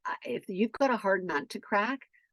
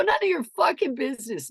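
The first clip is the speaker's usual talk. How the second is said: high, sharp rebuff; re-enacted indignant snap; angry retort; 6 semitones higher than usual. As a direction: shut the question down angrily. Acted quarrel with teen.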